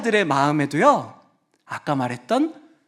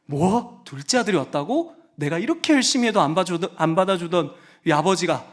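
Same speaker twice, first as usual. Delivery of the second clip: sulking son. Acted. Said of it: "삐지고 만 거예요".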